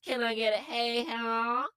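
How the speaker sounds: hammy Southern hey ha; Southern accent. Acted. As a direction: drawl out a Southern holler. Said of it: "in Southern accents".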